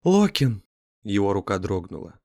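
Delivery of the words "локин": terrified scream of a name. Acted. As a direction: cry out in horror.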